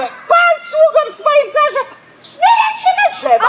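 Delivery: fast, high, rising exclaim; excited gossip. Retold or imitated. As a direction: tell the outrage breathlessly. Gossip retelling outrage.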